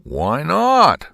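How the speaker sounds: high, emphatic why not; grudging agreement. A narrator's reading. Henry B. Swap agreeing, high and emphatic. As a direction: Swap giving in. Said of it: "said Henry B. Swap".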